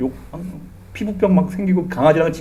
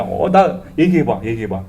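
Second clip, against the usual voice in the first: put-on demanding child; 8 semitones lower, 4 dB quieter than usual. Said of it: "따지는 거야".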